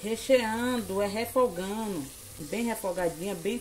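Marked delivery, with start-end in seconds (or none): 0.0-2.0 high, slowed mock-scolding viewer voice; mock viewer correcting. Imitating viewers correcting her: high and slow. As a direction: play a fussy viewer correcting her slowly. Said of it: "Fala, "Aline".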